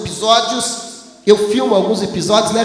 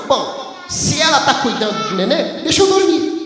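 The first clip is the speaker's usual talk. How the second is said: amused self-quote. Retold or imitated. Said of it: "Eu uso a minha razão".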